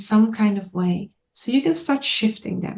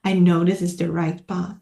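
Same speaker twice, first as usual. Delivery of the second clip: lower, softer, quietly certain; deep inner knowing; 5 semitones lower, 3 dB quieter than usual. Acted. Healer voicing an inner sense of rightness, quietly certain. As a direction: say it low, from settled conviction. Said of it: "this deep sense of".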